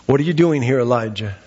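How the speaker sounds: a lightly voiced God, low and grave; hint of a solemn divine voice. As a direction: let God ask it low and searching. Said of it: "the words came to Elijah that day by God".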